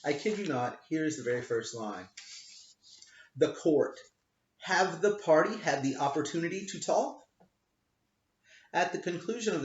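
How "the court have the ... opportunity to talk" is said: a light mock of a halting non-native read; lightly voiced magistrate; imitating the magistrate. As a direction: read it stiffly, as the magistrate did. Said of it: "would include non-native speaker of English".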